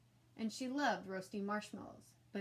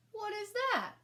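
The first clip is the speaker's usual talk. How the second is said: much higher, louder creature voice; startled rug monster; 12 semitones higher, 6 dB louder, slower than usual. A narrator's reading. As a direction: recoil in alarm.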